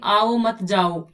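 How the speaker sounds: very slow, spaced words; slow demo. Shown as a demonstration. Teacher slowly reciting a childhood example. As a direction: spell the phrase out word by word. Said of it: "हम बचपन में पढ़ते थे ना".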